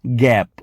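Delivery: ગેપ with a short open a. Shown as a demonstration. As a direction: say ગેપ without any glide. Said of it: "એનો ટૂંકો અવાજ આવશે".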